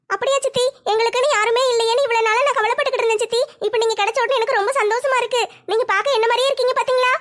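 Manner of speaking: put-on a young girl thrilled to find family; happy daughter.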